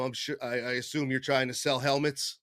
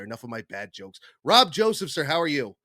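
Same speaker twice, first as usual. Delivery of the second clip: ordinary talk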